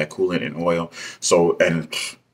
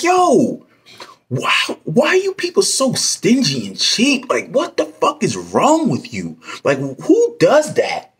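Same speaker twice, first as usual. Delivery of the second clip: mock angry yell; 13 semitones higher, slower than usual. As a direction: yell it like you've lost patience. Retold yelling at the mechanics.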